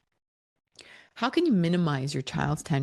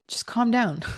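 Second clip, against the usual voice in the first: mocking partner; 6 semitones higher than usual. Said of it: "if they were to say".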